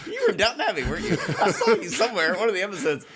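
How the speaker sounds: laughing, high mock posh British accent. Teasing the British heckler in a laughing British accent. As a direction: ham up a Downton Abbey British accent through a giggle. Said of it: "because they have the British accent".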